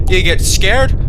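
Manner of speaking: light British accent, get said as geht; a quick British take on You get scared?. Shown as a demonstration. Player shows his other scared accent, light British.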